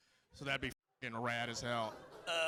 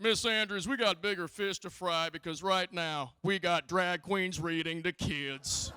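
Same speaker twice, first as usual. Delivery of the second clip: mock senator; 3 semitones higher, 3 dB louder, slower than usual. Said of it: "the senator's just like".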